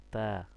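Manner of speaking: "তা" with the vowel drawn out; one-alif stretch. Shown as a demonstration. Teacher asking learners how long it is, "তা" held out. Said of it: "তাটা কি অয়ালিফ টান হবে".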